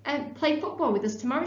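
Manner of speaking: high, fast, eager call to a new friend; boy eagerly inviting the new boy to football; excited shout. A narrator's reading. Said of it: "shouted Tom".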